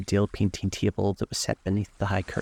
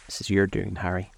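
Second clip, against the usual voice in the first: understated bitterness; bitterly. Acted. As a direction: lay the blame bitterly, without raising the voice.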